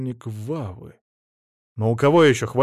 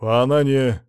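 halting, tentative question; hopeful question; 4 dB louder than usual. A narrator's reading. Son-in-law asks after his dead wife, faltering hope. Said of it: "с надеждой спросил Мамонов".

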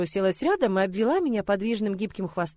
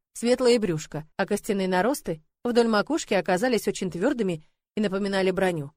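plain reading voice

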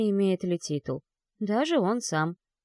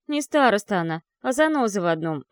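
sneering through the teeth, louder; snide hiss; 3 semitones higher, 4 dB louder than usual. Acted. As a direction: spit it out with venom. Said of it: "ехидно процедила Мика".

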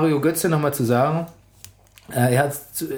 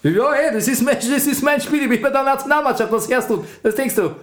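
put-on Austrian accent; 7 semitones higher than usual. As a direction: brag in a thick Austrian accent. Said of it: "Mach Mario Götze mit österreichischem Akzent".

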